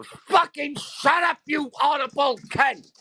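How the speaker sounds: doll's voice snapping back at the streamer; mock Ice Queen voice. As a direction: snarl the insult as the doll. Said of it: "she's saying it's all".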